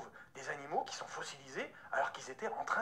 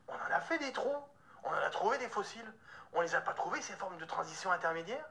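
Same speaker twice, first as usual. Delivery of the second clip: acted disbelief, pitched up then insistent; retold incredulous objection; 3 semitones higher than usual. Objecting to a friend about missing fossils, incredulous. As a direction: push back in surprise, ending on a question.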